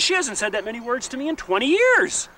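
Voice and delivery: high, loud amused Irish man; mock Irish husband. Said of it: "He says".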